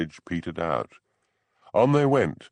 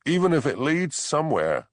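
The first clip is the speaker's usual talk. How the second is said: shouting; 8 semitones higher, 3 dB louder than usual. A narrator's reading. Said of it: "shouted Hamish".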